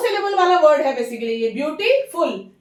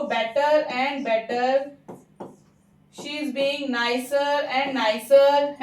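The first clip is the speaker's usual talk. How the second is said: slow dictated examples; much slower than usual. Shown as a demonstration. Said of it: "teacher dictates example phrases".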